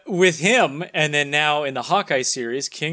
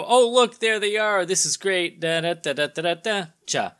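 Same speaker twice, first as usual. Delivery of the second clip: excited; 3 semitones higher than usual. Retold or imitated. Retelling cameo in excited voice.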